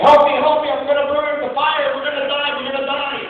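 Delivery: high-pitched mock cries for help; panicked yelling. Mother trapped atop burning building, yelling in panic. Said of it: "and she was yelling".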